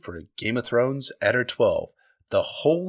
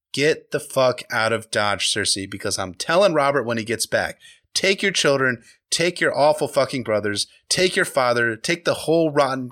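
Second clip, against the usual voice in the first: stern order. Acted. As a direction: drive her out, every word final. Ned ordering Cersei out.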